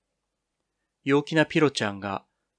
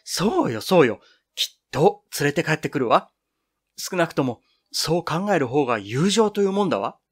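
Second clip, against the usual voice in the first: higher, bright and eager; happy; 3 semitones higher than usual. Acted. Ayuko cheers her friends' faith in Azusa, happy eager voice. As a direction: clap hands and agree gladly. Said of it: "嬉しそうに手を打ち合わしながら".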